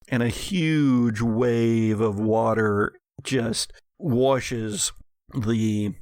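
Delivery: rising dramatic narration; game master narration. A narrator's reading. Game master describing Lori's spell for players, dramatic. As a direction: paint the spell's effect for the table.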